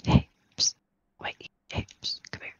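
hushed whisper calling someone over; psst for attention. Pretend. Sneaky call to a player.

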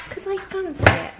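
put-on high-pitched, playful Bristolian accent. Vlogger justifying her naughty tea, playful Bristolian accent. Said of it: "I don't know why I'm from Bristol".

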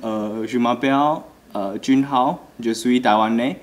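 put-on learner's French phrases, Taiwanese accent; foreign accent in French. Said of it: "some few words is".

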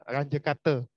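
slow Ranje Kate as "RAN-juh KAH-tuh"; Ranje Kate pronunciation demo. Shown as a demonstration. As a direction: model Ranje Kate slowly for students. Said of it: "cara bacanya ini adalah".

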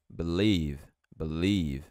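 Believe said as bliv, first E dropped; silent first E. Shown as a demonstration. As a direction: clip it to bliv. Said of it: "Esse E não vai ser pronunciado".

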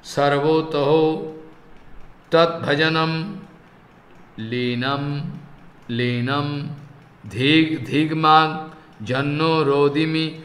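slow, measured chanting of a Sanskrit verse; verse recitation. Acted. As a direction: intone the verse slowly, like a prayer. Recites verse again, softer.

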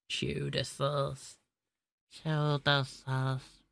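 quietly drawn-out mock accent; put-on Indian accent. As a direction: drag out Cheddar sauce quietly, mock accent. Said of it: "I do not know why I am starting to speak like this".

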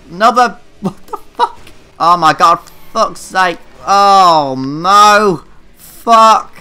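laughing disbelief. Real, not acted. Laughing at crashing car.

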